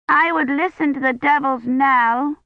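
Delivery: put-on high little girl chattering; a small child piping up; child's voice. A narrator's reading. Child Agnes voiced in story.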